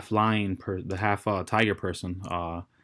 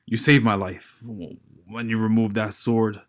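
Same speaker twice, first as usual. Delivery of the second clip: grunting giant; 4 dB louder than usual. Acted. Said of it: "grunting the entire time".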